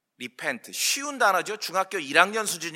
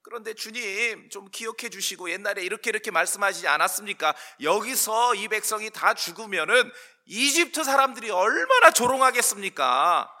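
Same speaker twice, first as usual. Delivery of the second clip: raised-pitch pleading with God; clinging plea; 4 semitones higher than usual. Acted. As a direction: reason with the Lord imploringly, voice lifted. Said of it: "모세가 매달리는 거예요".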